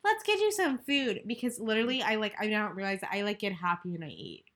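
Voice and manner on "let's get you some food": much higher, slow, doting voice; boyfriend comforting. Retold or imitated. Boyfriend cheering up upset girlfriend, high slow doting voice. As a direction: coax her like a caring boyfriend offering food. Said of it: "he's like".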